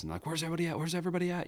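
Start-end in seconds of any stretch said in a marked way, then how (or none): 0.3-0.8 high, frantic cartoon kid; panicked cartoon voice. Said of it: "somebody has their helmet covers their eyes". 0.8-1.5 even higher frantic cartoon kid; panicked cartoon voice.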